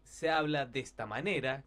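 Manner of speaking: demostrar una voz impostada, más fuerte. Shown as a demonstration. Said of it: "en vez de hablar así". (voz impostada, con más volumen)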